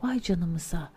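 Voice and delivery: hissing whispery creature, lightly voiced; snake. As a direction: hiss the words like a snake. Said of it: "fısıltılı bir sesle tıslayarak konuştu".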